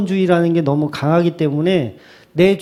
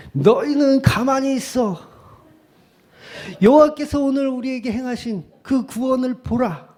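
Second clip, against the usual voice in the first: Moses; 8 semitones higher than usual. Acted. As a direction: declaim it like a prophet commanding the crowd. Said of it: "모세였으면".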